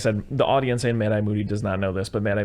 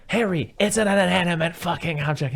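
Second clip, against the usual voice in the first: raised, high-pitched imitation of scolding; mock exasperated scolding; 8 semitones higher than usual. Wife to husband slamming phone, mock exasperated scolding.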